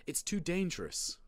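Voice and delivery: high-pitched anxious plea; begging. A narrator's reading. Big brother warning parents off the library, high plea. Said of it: "Marty begged".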